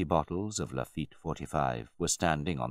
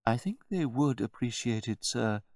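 higher-pitched, measured servant; deferential butler; 9 semitones higher than usual. A narrator's reading. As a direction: answer the master with careful politeness. Butler answers his master.

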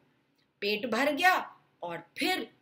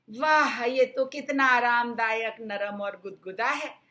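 delighted; 5 dB louder than usual. Acted. Girl on comfy bed.

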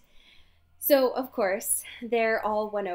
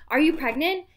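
laughing reading; 3 semitones higher, 5 dB louder than usual. Real, not acted. Reading funny article title.

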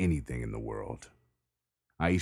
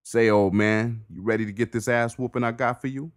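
Bricks voice; 8 semitones higher, 6 dB louder than usual. Acted. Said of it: "Bricks asked".

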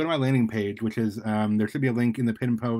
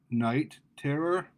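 slow, higher, fearful stammer; 4 semitones higher, much slower than usual. Acted. Carl forced to name his attacker, fearful stammer. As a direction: drag out the name in dread.

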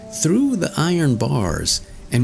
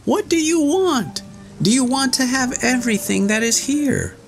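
shouting Tom Thumb. A narrator's reading. Tom Thumb calling out in the pastor's room, high shout. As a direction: cry out with all his might. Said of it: "cried again".

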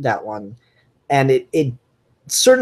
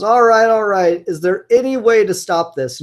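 mildly raised, fed-up appeal; exasperated plea; 4 semitones higher, 4 dB louder than usual. Acted. Batman tries to reason with his tormentor, exasperated. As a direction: plead for a truce, a bit higher and louder. Acts Batman pleading to stop.

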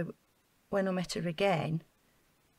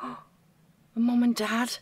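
dismayed gasp; 4 dB louder, much slower than usual. Acted. Sudden dread about parents.

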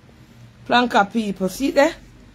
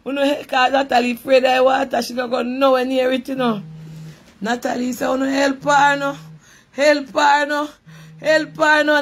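retold bawling for help; 3 semitones higher than usual. Retelling her friend bawling for help at the slide, building mock cries. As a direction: imitate a friend bawling for help, rising each time. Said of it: "Natalie a ball".

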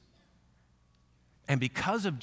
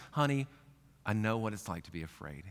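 soft, lower comforting voice; tender reassurance; 3 semitones lower, 3 dB quieter than usual. Retold or imitated. God comforting a scared person, soft and tender. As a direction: speak softly to a frightened child.

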